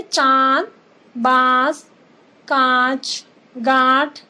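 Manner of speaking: चांद बांस कांच with the vowel sounded through nose and mouth, slowly; अनुनासिक ध्वनि स्पष्ट बोलते हुए; nasalised vowels shown. Shown as a demonstration. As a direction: spell out each word, letting the ं ring through the nose. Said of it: "ध्वनि नाक और मुंह दोनों से निकलती है".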